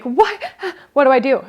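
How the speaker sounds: high-pitched, flustered "what do I do", laughing; a flustered, laughing cry of what now; mock panic. Dog mom panicking as her dog runs with poop. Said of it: "I'm like".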